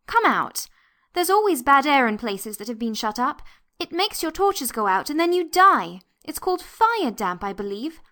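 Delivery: put-on high-pitched girl warning of danger; urgent. A narrator's reading. Anthea calls the boys out of the bad air, urgent high voice. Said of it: "The urgency of her tone".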